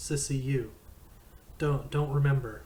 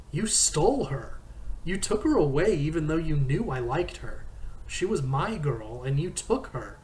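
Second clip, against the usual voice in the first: higher and louder, hammering each charge; furious accusation; 4 semitones higher, 5 dB louder than usual. Acted. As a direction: throw every betrayal in his face. Todd accuses him of stealing Alana.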